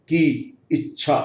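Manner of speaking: की held with a long ee before इच्छा; slow teaching example; long ee demo. Shown as a demonstration. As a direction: stretch the vowel of की, slowly. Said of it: "long sound.".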